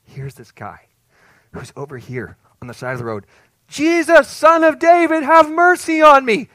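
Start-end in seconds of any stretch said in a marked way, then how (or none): 3.7-6.5 loud, high desperate cry, mercy drawn out slowly. Acted. Blind beggar crying to Jesus, loud and desperate. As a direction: call out over the crowd with everything you have.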